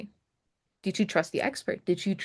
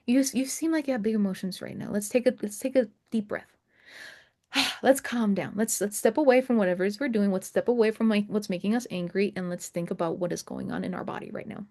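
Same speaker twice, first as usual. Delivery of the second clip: soothing parent. Retold or imitated. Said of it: "It's like talking to my six-year-old".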